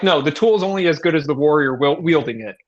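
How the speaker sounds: imitating a hyped-up friend; pep talk. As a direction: build the buddy up, coach-style. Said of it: "this really long pep talk".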